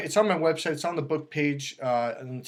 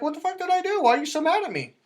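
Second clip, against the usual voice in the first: high-pitched bewildered mock protest; baffled protest; 12 semitones higher, faster than usual. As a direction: act out a guy who has no idea why she's mad. Acts a baffled man being blamed.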